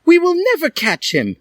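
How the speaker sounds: high, loud despairing cry. A narrator's reading. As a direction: Draco wails it in defeat. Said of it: "cried Draco".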